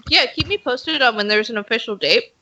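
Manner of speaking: talking through a mouthful; chewing while speaking; mouth full. Real, not acted. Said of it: "talking with my mouth full".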